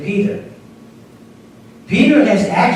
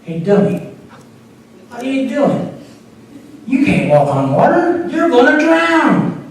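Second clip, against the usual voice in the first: taunting devil; 5 semitones higher than usual. Retold or imitated. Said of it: "he whispered into Peter's ear".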